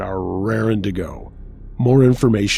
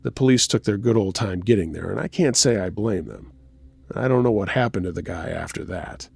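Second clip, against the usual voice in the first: story narration. A narrator's reading. Host reading a listener's festival story to the audience, story narration. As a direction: narrate a true creepy tale, pausing between beats.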